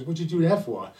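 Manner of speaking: surprised nun. Acted. Mother Superior asks the girl.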